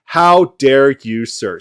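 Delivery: slow, drawn-out fake indignant "how dare you"; mock outrage. Mocking the debater's staged fit, fake outrage. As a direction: put on a theatrical huff. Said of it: "it's better to throw this fit".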